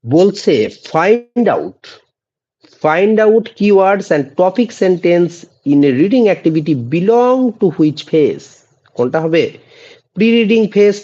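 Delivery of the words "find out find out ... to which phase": slow, deliberate dictation pace; slow quiz reading; slow question read. Shown as a demonstration. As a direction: read each word out for the class. Reads quiz question aloud.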